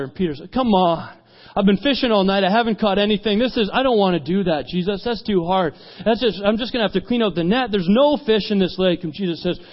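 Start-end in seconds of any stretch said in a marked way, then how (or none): 0.5-9.0 mildly exasperated pushback; reluctant, complaining retort; weary protest. Retold or imitated. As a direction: grumble like a tired fisherman. Peter protests Jesus's fishing order.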